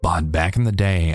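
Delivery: ordinary delivery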